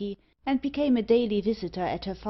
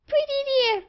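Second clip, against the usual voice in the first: much higher piercing bird squawk; screeching parrot; 5 dB louder than usual. Acted. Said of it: "screamed Meg".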